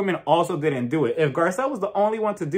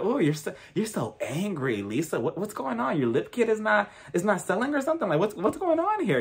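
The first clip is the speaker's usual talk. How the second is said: mocking; 3 semitones higher, 5 dB quieter than usual. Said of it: "I would have been like".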